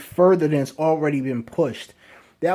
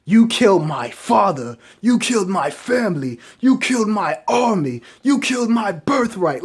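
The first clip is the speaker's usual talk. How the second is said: acted accusation. Acting Vegeta accusing Beerus.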